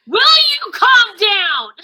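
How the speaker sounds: booming, high and loud, slowly; yelled command. Acted. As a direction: roar it to silence the crowd. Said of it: "And I wanna yell".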